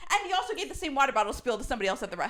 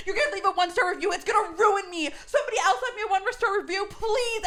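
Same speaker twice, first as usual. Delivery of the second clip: frantic pleading; 4 semitones higher, faster than usual. Retold or imitated. Owner pleading, near tears.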